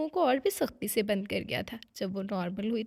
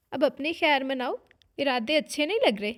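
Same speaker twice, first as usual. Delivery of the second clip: playful, louder ribbing; teasing; 3 semitones higher, 6 dB louder than usual. Acted. Sister-in-law teasingly warning the young wife, playful. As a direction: tease her with a knowing wink. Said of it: "नैन ने छेड़ा".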